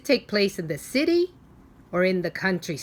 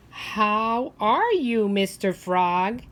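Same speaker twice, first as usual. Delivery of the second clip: put-on little boy; 3 dB louder, much slower than usual. Boy greeting the frog.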